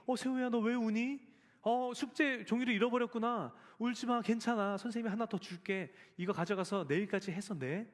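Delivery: kind teacher. Retold or imitated. Father voicing kind teacher.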